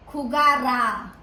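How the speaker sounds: "jugará" slow, with the last A held; "jugará" ending on a long stressed A; accent on final A. Shown as a demonstration. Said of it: "a with an accent".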